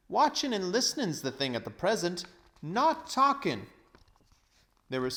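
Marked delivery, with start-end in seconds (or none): 0.1-3.7 loud cockney, slowing at the end; cockney cabby. A narrator's reading. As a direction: drop the g's like a London cabby. Cabby advises watching.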